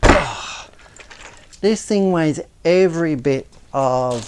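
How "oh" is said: straining while lifting; strained, effortful voice; effort grunt. Real, not acted. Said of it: "Excuse me for grunting".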